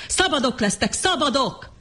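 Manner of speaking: high, ringing repeated shout. A narrator's reading. John shouting freedom at the mob. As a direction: cry it out as they rush him. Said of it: "ordította John".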